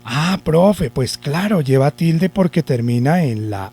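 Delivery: lightly voiced pupil catching on; alumno que entiende. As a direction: answer as a student who just got it. (alumno que cae en cuenta, voz algo imitada)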